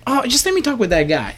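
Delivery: high-pitched imitation of a woman caller; lady caller. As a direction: imitate her insisting, voice lifted high. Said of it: "She was like".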